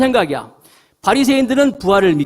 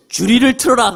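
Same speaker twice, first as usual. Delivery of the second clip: mock Joseon magistrate; 3 semitones higher, 4 dB louder than usual. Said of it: "한국식으로 하면은".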